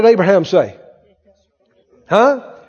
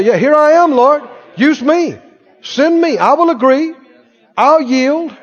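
eager here I am; 4 semitones higher than usual. Acted. Eager believer voiced.

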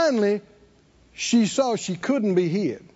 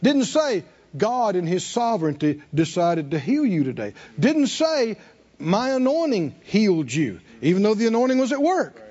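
raised, insistent preacher's delivery; emphatic preaching; 4 semitones higher than usual. Acted. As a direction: preach it with drive, pitched up. Preaches at high pitch.

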